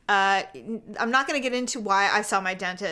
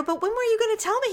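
jilted indignation; 9 semitones higher, faster than usual. Retold or imitated. Confronting dentist as jilted.

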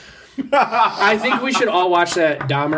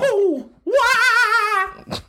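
much higher cartoon plumber shout; Super Mario impression; much slower than usual. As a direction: yelp it like the jumping plumber. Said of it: "Super Mario, go".

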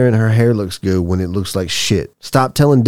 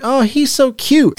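mock cooing; 14 semitones higher than usual. Mocking a lying stranger.

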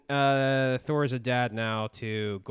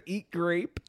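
lightly mocked Greek accent; high-ish mock-Greek snippet; Russell Crowe; 4 semitones higher than usual. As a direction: quote it with a hint of Greek accent. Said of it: "full Greek accent".

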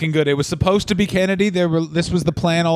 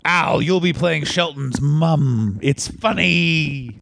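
mock Vince; much slower than usual. Continuing mock Vince bit.

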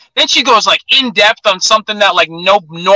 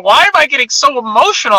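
higher-pitched mock emotional question; emotional girlfriend; 4 semitones higher than usual. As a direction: imitate a girlfriend getting worked up. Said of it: "she, like, gets emotional".

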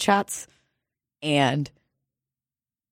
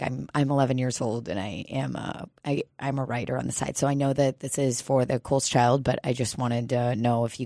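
put-on quiet, timid kid voice; nervous little kid; 4 semitones lower, 4 dB quieter than usual. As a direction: speak softly like a shy child. Playing nervous eleven-year-old.

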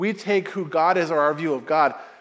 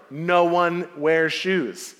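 thrilled salesman; much slower than usual. Retold or imitated. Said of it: "best opportunity we have had ever".

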